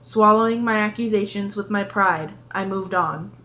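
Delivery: measured audiobook narration; story narration. A narrator's reading. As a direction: read it aloud as a first-person storyteller. Reads the story aloud.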